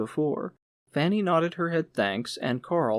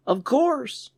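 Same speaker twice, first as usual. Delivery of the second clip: higher, louder, smiling reassurance; amused manager; 11 semitones higher, 4 dB louder than usual. A narrator's reading. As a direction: laugh off his doubts. Manager smiles at doubts.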